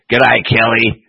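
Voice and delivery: mock Australian accent. Shown as a demonstration.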